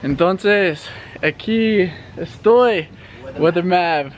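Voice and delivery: weatherman in Spanish. Pretend. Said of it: "give it in Spanish".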